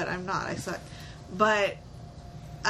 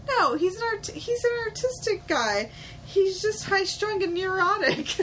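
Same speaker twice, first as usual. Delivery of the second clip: quoting a friend; 8 semitones higher than usual. Retold or imitated. Retelling Jess defending Peter.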